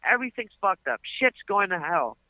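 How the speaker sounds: high, hammed-up threats; mock threatening rant. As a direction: threaten like a blustering landlord. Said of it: "He's like".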